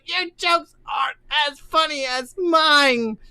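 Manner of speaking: high, shouted clown taunt; silly clown. Acted. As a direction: jeer like a sore clown. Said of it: "He's like".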